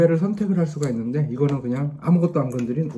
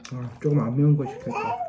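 chewing while talking; eating spicy rice cakes; mouth full of food. Real, not acted. Seen 0: Man talks with puffed cheeks, chewing after a bite at -7.

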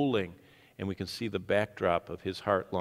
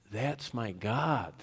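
slow and softer "That's my God", each word settled; quiet worshipful declaration; 3 dB quieter, much slower than usual. Shown as a demonstration. Worshipper declaring his God in worship, slow and soft. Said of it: "we say in worship".

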